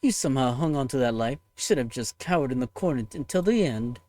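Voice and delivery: cold, contemptuous avenger condemning humanity; scornful villain voice. Acted. Ushiwakamaru scorning the humans who killed her, contemptuous villain voice. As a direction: sneer down at the humans you despise.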